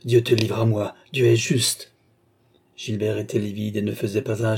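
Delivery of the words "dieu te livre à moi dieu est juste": firm, emphatic vengeful declaration; mildly roared vow; roaring. Acted. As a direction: proclaim it with contained fury. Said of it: "rugit Philippe".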